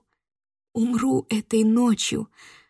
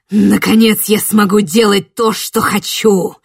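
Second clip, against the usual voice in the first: furious ranting creature; 7 dB louder than usual. Acted. Существо злорадно кричит.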